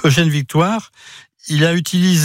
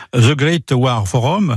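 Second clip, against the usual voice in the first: slow, careful English pronunciation of The Great War Forum; apologetic, deliberate English pronunciation; English accent; slower than usual. Real, not acted. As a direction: say the forum name slowly in a French speaker's English. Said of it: "alors pardonnez mon accent anglais".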